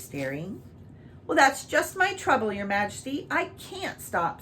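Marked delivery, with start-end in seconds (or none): 1.3-4.4 piteous. Acted. Red cow pleading with the king, piteously higher. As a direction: plead helplessly, higher and slowed. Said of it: "said the red cow piteously".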